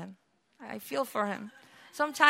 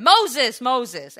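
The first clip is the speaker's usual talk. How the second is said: calling out; 3 semitones higher, 10 dB louder than usual. Acted. God calling Moses from bush.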